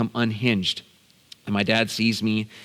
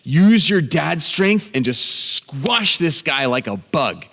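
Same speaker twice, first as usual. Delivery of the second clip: raised pitch, punchy goading; eager expectation; 4 semitones higher, 3 dB louder, slower than usual. Retold or imitated. Son expecting dad to crush the offender, eager urging. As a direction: urge dad on with relish. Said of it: "looked up at my dad with his expectation".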